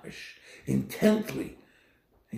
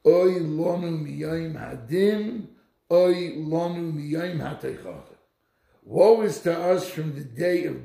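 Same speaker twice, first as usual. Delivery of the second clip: lament; 3 semitones higher, 5 dB louder, slower than usual. Retold or imitated. Quoting sage's lament.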